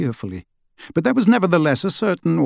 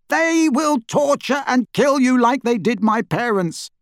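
shouted warning; 12 semitones higher than usual. A narrator's reading. Harry's shouted warning continues.

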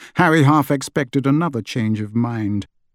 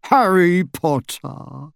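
slow, squeaky delighted greeting; excited squeak; 5 semitones higher, much slower than usual. A narrator's reading. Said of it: "squeaked an excited voice".

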